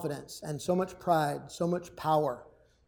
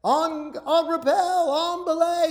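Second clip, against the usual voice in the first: high called-out rappel commands; calling out commands; 8 semitones higher, slower than usual. Retold or imitated. Soldier calling out rappel signals, high and called. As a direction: call it out like a soldier on the cliff. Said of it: "you have to call out".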